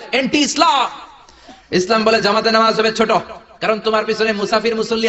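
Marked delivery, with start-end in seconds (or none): 0.1-0.9 laughing shout. Real, not acted. Preacher exclaims to crowd.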